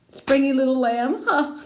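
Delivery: high, rising echo; girl laughing at a silly phrase; amused disbelief. Acted. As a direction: repeat it in mocking wonder.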